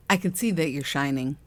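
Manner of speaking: repeating it through a laugh. Retold or imitated. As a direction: laugh while saying "I can see that you're shining".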